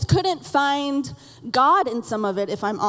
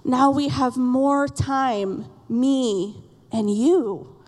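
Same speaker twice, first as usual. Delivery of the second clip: lightly voiced little boy; much slower than usual. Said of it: "He said".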